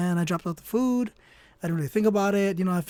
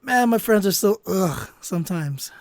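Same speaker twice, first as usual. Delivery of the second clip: mock exasperation; 4 dB louder than usual. Venting about his prankster friends.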